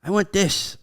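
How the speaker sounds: put-on high, demanding little girl; little daughter. Daughter telling dad what she wants, high imitated child voice. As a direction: imitate a small girl making her demand. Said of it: "That's exactly how she talks".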